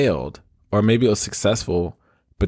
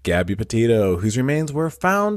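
news anchor voice; 3 semitones higher than usual. Pretend. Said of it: "give my best news anchor voice".

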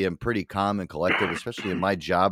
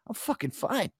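higher, manic laughing insistence; laughing denial; 13 semitones higher, 4 dB quieter than usual. Retold or imitated. To his coworker, a higher giggling claim he is fine. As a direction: giggle through it, clearly not fine. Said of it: "I'm, like, laughing".

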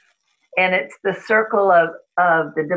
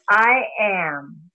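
slow mantra; 3 semitones lower than usual. Acted. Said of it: "read the mantra slowly".

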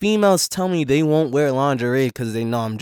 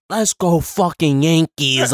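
slow drawn hype cheer; root for the team; 5 semitones higher, 5 dB louder, slower than usual. Real, not acted. Sports cheer sidebar.

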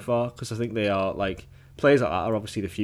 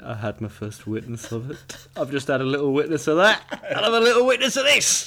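imitating Willie; 2 semitones higher than usual. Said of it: "I like the way he said".

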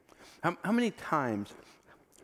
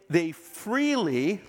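"freely" drawn out slowly and leaned on; stress on freely; 2 semitones higher, much slower than usual. Shown as a demonstration. Preacher stressing that forgiveness was free, slow emphasis on "freely". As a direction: stretch "freely" slowly to make it land. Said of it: "I emphasize the word freely".

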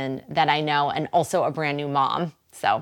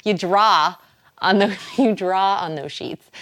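Boston accent. Shown as a demonstration. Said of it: "I'm from Boston".

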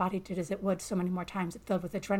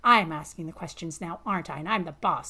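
loud, angry insistence; rising rage; 8 dB louder than usual. A narrator's reading. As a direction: assert you are the boss. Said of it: "your rage spiking".

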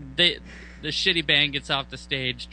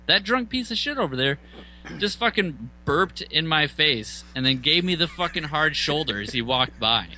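indignant complaint; 4 semitones higher than usual. Retold or imitated. Telling the band about the drunk, high and indignant. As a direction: point and complain, pitched up. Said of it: "I was like".

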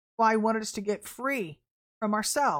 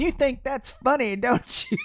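raised, mildly stern dad voice; mock mad dad; 3 semitones higher, 4 dB louder than usual. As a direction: confront the giggling kid, a bit higher. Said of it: "they were really, really mad at you".

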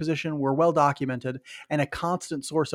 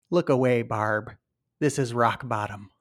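put-on Canadian accent; 3 semitones lower, slower than usual. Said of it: "That's Mark's best Canadian accent".

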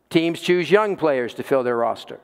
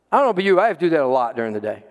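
usual speaking voice

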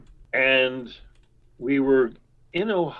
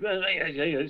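imitated snippy "eh, eh"; quick nagging noises, starting higher; mock bickering noises; 5 semitones higher than usual. Two friends snipping at the counter, mock bickering noises. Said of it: "snipping at each other about something".

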